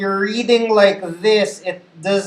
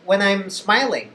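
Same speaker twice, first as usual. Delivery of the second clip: smiling voice. Shown as a demonstration. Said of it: "here's what it's like when I'm smiling".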